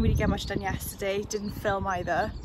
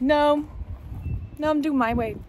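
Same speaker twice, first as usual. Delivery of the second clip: mock stubborn "no", pitched up; big-headed refusal; 5 semitones higher than usual. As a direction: play at being a stubborn know-it-all. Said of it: "big-headed of me if I".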